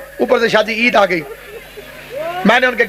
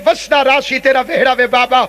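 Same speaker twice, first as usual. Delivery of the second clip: Zainab's tearful lament. Retold or imitated. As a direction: declaim the verse as a weeping lament. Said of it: "رو رو کے زینب فرماتی ہے".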